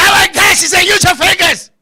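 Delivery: put-on girl's instruction. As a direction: mimic her snapping out instructions. Acting out girl's impatient instruction.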